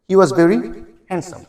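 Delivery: "handsome" said hen-sum, the d silent; teacher saying "handsome" as hensam; pronunciation demo. Shown as a demonstration. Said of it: "উচ্চারণটা কিন্তু হ্যান্ডসাম না".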